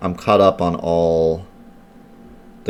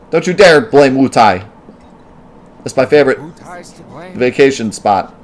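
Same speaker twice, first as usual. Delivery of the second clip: mock indignation; 7 semitones higher, 6 dB louder than usual. Streamer talking back to game characters, mock indignant. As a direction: leap to the defense in mock outrage. Mock defends favorite vacation spot.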